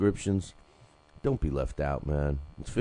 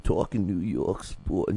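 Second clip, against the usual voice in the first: Western voice; 2 semitones higher, slower than usual. Retold or imitated. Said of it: "'cause I did with Talking New York Sports".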